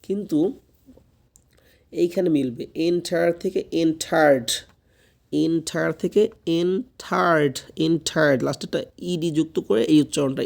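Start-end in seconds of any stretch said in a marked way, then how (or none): 2.9-8.4 "এন্টায়ার্ড" with its ending sounded; teacher demonstrating the end consonant of "এন্টায়ার্ড"; final D pronounced. Shown as a demonstration. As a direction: model "এন্টায়ার্ড" clearly, closing on the added d/t sound. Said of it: "ডির উচ্চারণটা আসবে".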